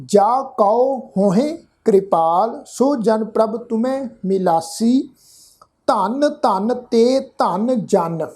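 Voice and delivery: slow, word-by-word verse reading; measured scripture reading. Shown as a demonstration. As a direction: read each word of the verse slowly and distinctly. Demonstrates reading the whole verse.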